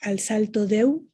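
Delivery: de una merged into deu, said slowly; sinalefa on deu. Shown as a demonstration. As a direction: al salto deu, de and u joined into one syllable. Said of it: "Lo mismo sucede en español con deu".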